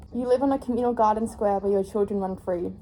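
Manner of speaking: reading the back cover like a book trailer; dramatic blurb read, lightly done. Acted. Reads book blurb aloud.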